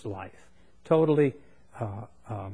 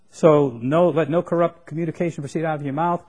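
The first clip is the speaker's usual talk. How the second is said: forceful emphasis; 4 semitones higher, 7 dB louder than usual. Acted. Preacher repeats verse with force.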